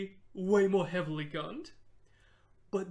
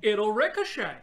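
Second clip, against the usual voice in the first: put-on southern accent; 2 semitones higher, 9 dB louder than usual. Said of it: "You can't do a southern accent".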